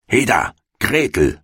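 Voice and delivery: put-on high impatient call to the girl; witch calling out. A narrator's reading. Impatient witch calling Gretel to work, high call. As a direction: hurry the girl along. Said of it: "rief sie dem Mädchen zu".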